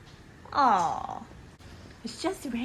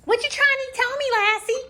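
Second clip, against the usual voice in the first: talking to a dog; 2 semitones higher than usual. Acted. Owner questioning dog playfully.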